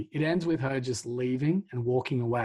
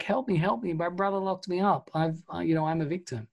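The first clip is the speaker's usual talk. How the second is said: high-pitched retold plea for help; mock pleading; 5 semitones higher, faster than usual. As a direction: imitate a victim begging, easing down by the end. Imitates locked-up man pleading victimhood.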